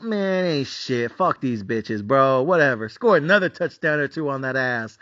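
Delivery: low, unbothered shrug of a voice; cocky dismissal. Retold or imitated. Bettor acting out his comfort with the lead, cocky and dismissive.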